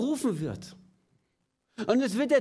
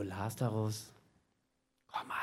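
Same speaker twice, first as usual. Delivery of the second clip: much lower and softer, a timid half-hearted call; weak quiet call; 12 semitones lower, 10 dB quieter than usual. Shown as a demonstration. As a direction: call him meekly, barely audible. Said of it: "Nicht so".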